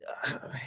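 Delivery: quiet, breathy sigh; weary sigh. Real, not acted. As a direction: let out a soft, exasperated sigh. Despairing over the manager.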